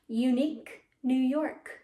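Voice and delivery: word by word, pause before New York; careful model take. Shown as a demonstration. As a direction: say it clearly for a class to repeat. Slow model take for repeating.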